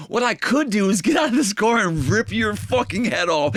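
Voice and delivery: heated retelling of a warning; retold threat. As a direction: imitate a dad threatening a stranger. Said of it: "so I tell the guys".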